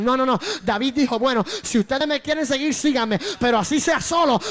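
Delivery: insistent repeated phrases, building in force; forceful preaching. Real, not acted. Preacher warns those who need a group, insistent preaching. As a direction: hammer the point home to the congregation.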